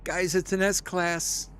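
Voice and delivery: high, giddy fangirl squeal; real high-pitched glee over a lucky find; schoolgirly excitement. Real, not acted. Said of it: "like, a little schoolgirly there".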